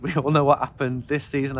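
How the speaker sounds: laughing bitterly through the words; a wry chuckle despite the loss; rueful laugh. Real, not acted. Fan laughing at his own team's bad season. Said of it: "I don't know why I'm laughing".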